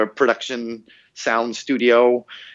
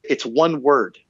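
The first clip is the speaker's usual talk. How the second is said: higher-pitched, exasperated reasoning; exasperated protest; 5 semitones higher than usual. Retold or imitated. Worn-out voice actor arguing with the recording team over one word, exasperated. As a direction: protest as if at the end of your patience. Pleading with the sound engineer.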